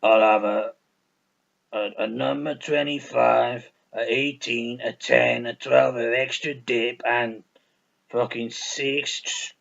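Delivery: slow, lightly voiced drive-thru order; a hint of Big Smoke reading off his food order. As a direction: drawl the order out slowly. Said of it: "He's like".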